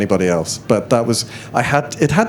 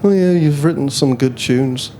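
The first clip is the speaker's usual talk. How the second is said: put-on Brummy accent; 2 semitones higher than usual. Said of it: "I can't really do a Brummy accent".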